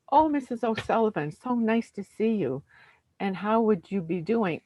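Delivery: put-on cheerfully greeting an old parishioner in the street; Irish priest. Joke dialogue, priest greets again.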